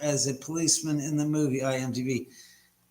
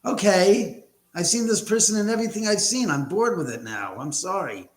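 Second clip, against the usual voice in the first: raised, hurried viewer's complaint; mock exasperation; 5 semitones higher than usual. Viewer tired of seeing the same actor, mock exasperation.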